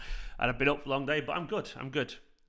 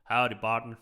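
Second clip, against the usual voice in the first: mock Texan drawl; 3 semitones lower than usual. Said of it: "The Texan drawl".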